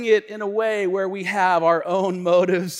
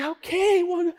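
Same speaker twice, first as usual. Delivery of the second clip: wife agreeing; 10 semitones higher, 3 dB louder than usual. Retold or imitated. Voicing his wife agreeing to date.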